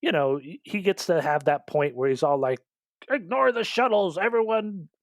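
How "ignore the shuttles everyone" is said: raised-pitch imitation of a commander; lightly acted urgent command; mock battle orders. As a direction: call out hammed-up orders to the fleet.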